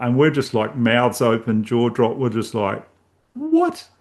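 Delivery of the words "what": high-pitched, incredulous "what?"; astonished squeak of a question; stunned disbelief. Retold or imitated. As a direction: re-enact being floored, pitch shooting right up. Stunned reaction to the rapping.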